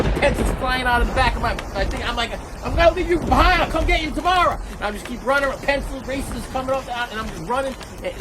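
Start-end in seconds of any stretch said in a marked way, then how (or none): 2.6-4.6 high, urgent mock shout; frantic calling out. Boy abandoning his things mid-run, frantic high call. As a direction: call back while fleeing. Child calls to dropped pencils.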